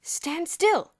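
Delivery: loud, firm command; firm order. A narrator's reading. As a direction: order him to freeze. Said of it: "Bruno ordered".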